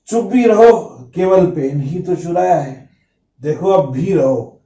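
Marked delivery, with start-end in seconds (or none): 0.1-2.9 dismissive friend. Acted. A friend waving off the teacher's complaint, mildly dismissive. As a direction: shush him, it's only a pen. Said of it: "फिर दोस्त बोलता है".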